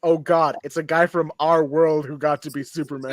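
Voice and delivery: weary, disgusted groan of a fan; dismayed. Retold or imitated. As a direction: say it like it's a letdown. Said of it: "And then in two thousand and five".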